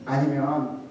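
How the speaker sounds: usual speaking voice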